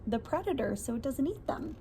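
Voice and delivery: hushed whisper for a spooky fact; secretive storybook whisper. Acted. Reading a scary fact to children.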